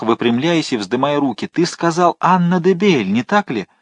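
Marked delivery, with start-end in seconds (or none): 1.5-3.7 выше и медленнее, в торжестве; торжествующий возглас с нажимом на «де»; возбуждённо. A narrator's reading. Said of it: "воскликнул монах". (монах торжествует, услышав имя матери)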